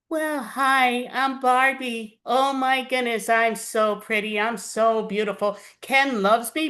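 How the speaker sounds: a hint of a vain Barbie admiring herself; Barbie impression. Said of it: "I'm gonna do my best impersonation".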